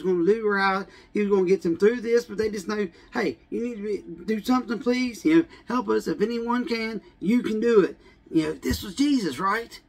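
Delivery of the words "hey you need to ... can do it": raised-pitch anxious plea; a half-voiced desperate ask; pleading. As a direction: disciples urging Jesus to help, high pleading. Disciples pleading again.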